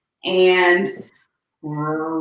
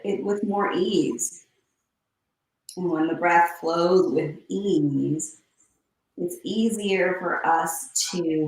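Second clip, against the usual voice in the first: guided breathing. Acted. Yoga teacher guiding class through breathing. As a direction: ease them into the breath, unhurried.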